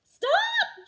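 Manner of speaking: loud high shout across the bus; frantic teacher shout; yelling. A narrator's reading. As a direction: yell to stop him in time. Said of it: "she yelled".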